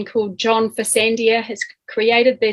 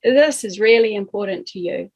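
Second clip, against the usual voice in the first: acknowledging. Shown as a demonstration. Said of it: "So this is me saying this".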